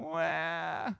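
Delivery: put-on joking baby-like wah; drawn-out pretend bawl; mock crying wail. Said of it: "He went".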